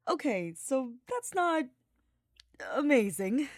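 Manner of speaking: a lightly voiced sardonic mage; Hubert, dry and displeased. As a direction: let the disappointment drag out. Hubert voiced in a read story.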